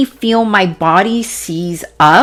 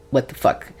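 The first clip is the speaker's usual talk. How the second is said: stunned whisper; 6 semitones lower, 9 dB quieter than usual. Retold or imitated. Stunned inner reaction to vision.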